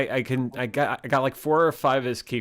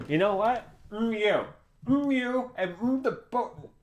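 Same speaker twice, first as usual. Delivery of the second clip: mock high voice; 11 semitones higher, 3 dB quieter than usual. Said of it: "Hold on a second".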